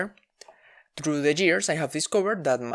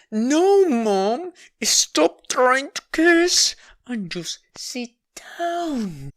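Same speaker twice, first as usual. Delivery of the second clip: higher, louder, slow and strained; exasperated yell; 9 semitones higher, 5 dB louder, much slower than usual. Retold or imitated. Child yelling at mom to stop guessing and sit. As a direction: shout it out, fed up. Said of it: "same request, now yelling".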